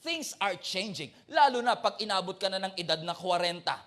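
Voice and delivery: a loud, rousing sermon push; full-force preaching. Acted. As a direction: preach it to the whole church.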